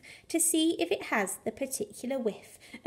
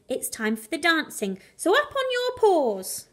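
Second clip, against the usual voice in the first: Coco calling; 4 semitones higher than usual. Acted. Conjurer Coco calls the dogs up to dance, high sing-song. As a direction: invite everyone up with a showman's flourish. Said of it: "Coco said".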